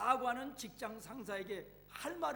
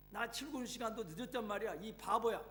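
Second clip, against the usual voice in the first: angry scolding. Acted. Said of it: "버럭 화를 내면서 한마디 쏘아붙였습니다".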